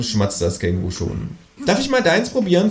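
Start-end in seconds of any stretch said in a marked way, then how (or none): 1.7-2.7 high-pitched creature voice; kangaroo character. A narrator's reading. Kangaroo asking to taste his food, high-pitched. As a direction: ask in a high cartoon animal voice.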